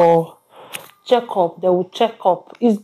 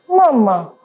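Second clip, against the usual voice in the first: calling out; 3 semitones higher than usual. Real, not acted. Calling out to crying baby.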